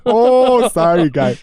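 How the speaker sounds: high, loud squeaky sorry; mock timid Minnesotan; mock apologetic. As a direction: play an overpolite pushover. Mocking polite Minnesotan.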